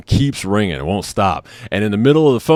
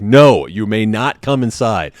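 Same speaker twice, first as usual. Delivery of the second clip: slow, louder, emphatic no; retold firm refusal; 2 semitones higher, 5 dB louder, slower than usual. Husband refusing guys at the door, retold firm refusal. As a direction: lay down each word firmly.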